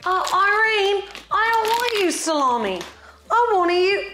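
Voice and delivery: high-pitched put-on British voice; British accent. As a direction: play a British friend calling to Irene in a British accent. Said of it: "my little British friend".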